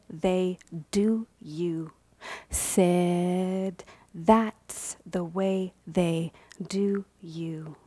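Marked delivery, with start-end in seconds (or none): 4.1-7.8 whispered echo. Acted. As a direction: repeat it on breath alone.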